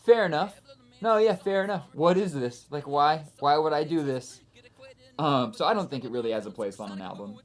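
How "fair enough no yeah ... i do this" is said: high, loud and amused; high, loud mock self-critique; amused self-agreement. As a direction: laugh at yourself, conceding. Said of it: "And I was like".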